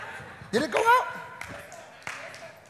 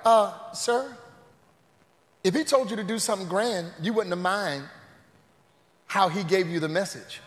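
timid servant; 8 semitones lower, 8 dB quieter than usual. Retold or imitated. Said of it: "And the servants are like".

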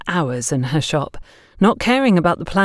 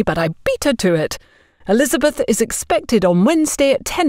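higher, smug neighbour delivering news; self-important busybody; 3 semitones higher than usual. Acted. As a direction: announce it as a favour granted. Agatha reports after phone call.

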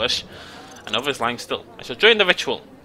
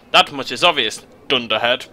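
Greenblitz voice; 4 dB louder than usual. Acted. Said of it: "what does Greenblitz sound like?".

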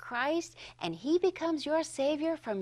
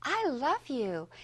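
tender address. Retold or imitated. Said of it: "I would say to you".

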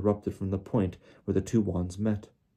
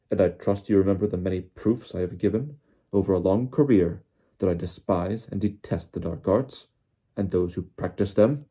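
louder, indignant; mild mock shout of outrage; 4 dB louder than usual. Crouch defending his record to Diggory, mild shout. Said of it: "Mister Crouch shouted".

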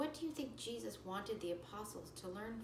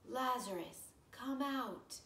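raised, higher call out; loud call; 6 semitones higher, 5 dB louder, slower than usual. Acted. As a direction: call him out of the tomb. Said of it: "he cried out in a loud voice".

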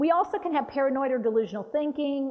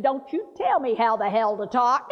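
grandma snapping back; 3 dB louder than usual. Retold or imitated. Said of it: "She said".

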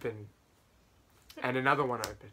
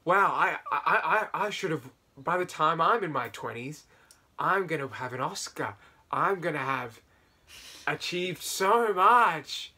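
younger self; 3 semitones higher, 7 dB louder than usual. Retold or imitated. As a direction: gush like a starry-eyed teen. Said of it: "would always look up ... and go".

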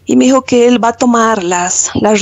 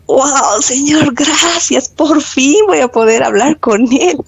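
a joyful, higher burst of thanks to God; excited thanks; 5 semitones higher, slower than usual. Retold or imitated. Woman retelling her thanks to God when the manager calls for her, excited and higher. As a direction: let the relief lift your voice as you thank God. Retold joyful prayer on good news.

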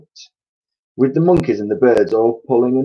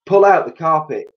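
high, loud command; shouted order; 7 semitones higher, 5 dB louder than usual. A narrator's reading. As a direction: bellow it to the whole crew. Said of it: "shouted Mugglewump".

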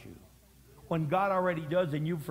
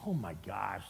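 appalled onlookers; 9 semitones lower, 7 dB quieter than usual. Acted. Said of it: "another group of people that go".

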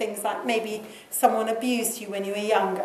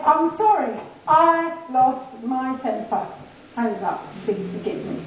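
owning the blame. Acted. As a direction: admit the fault squarely, then humbly ask forgiveness. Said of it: "We actually need to say".

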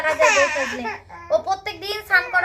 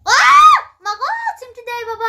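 playful pained cry; 10 semitones higher, 11 dB louder than usual. Real, not acted. Parent to the child who is pinching, high pained cry.

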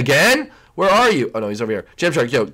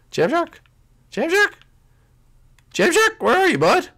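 calling out; 13 semitones higher than usual. Real, not acted. Calling out for missing teammate.

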